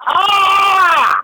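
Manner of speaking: very high zombie shriek; zombie noise. Pretend.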